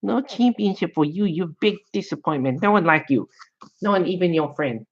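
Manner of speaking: high, scolding put-on Asian accent; mock Asian accent. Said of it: "I only do good Asian accents".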